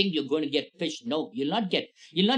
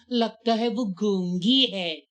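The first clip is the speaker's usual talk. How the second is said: mocking tease; 4 semitones higher, 4 dB louder, slower than usual. Girl mocks the silent cousin.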